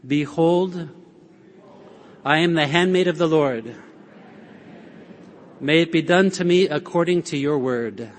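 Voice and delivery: fuller, proclaimed prayer for all to repeat; leading a shared prayer. Shown as a demonstration. Preacher leading the congregation to repeat Mary's words, proclaimed. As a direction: lead the room in saying it, steady and declared. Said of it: "Why don't you say that with me? Repeat after me".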